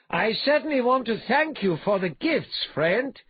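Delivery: loud, high, mock-courteous thanks; pleasant. A narrator's reading. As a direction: thank the beaten foe pleasantly, calling upward. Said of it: "he said pleasantly".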